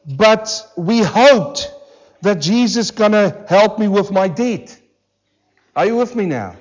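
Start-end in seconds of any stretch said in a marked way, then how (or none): 0.1-4.8 mock churchgoer. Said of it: "this is how they say it".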